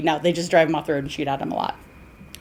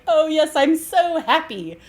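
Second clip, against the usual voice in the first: higher, hammed-up cheery reply; mock happy fiancé; 8 semitones higher than usual. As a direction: play him oddly cheerful right after a tragedy. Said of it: "And he's like".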